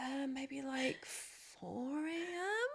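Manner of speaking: small, sheepish high voice; sheepish question. Retold or imitated. Sheepish quote of early departure.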